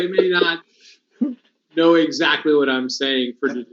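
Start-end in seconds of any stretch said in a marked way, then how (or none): 0.0-0.6 talking through numb lips. Real, not acted. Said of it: "my lips are numb".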